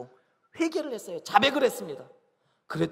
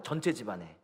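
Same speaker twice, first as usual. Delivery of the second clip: ordinary talk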